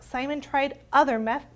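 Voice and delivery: plain reading voice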